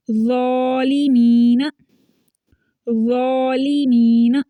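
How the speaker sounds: slow, held ज़ालिमीना with thick Z, "zawlimeena"; full-mouthed heavy recitation. Shown as a demonstration. Teacher reciting a Quran word as example, heavy and drawn out. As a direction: round and darken the Z in ज़ालिमीना. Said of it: "मोटा पढ़ा जा रहा है".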